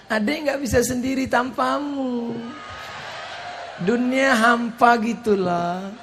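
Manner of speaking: gently pleading as a clingy wife; soft sweet talk. Retold or imitated. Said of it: "Sekarang kata-katanya lembut".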